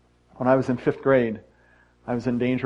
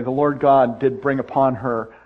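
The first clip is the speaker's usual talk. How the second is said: mock biblical; slower than usual. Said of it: "I like to say it this way".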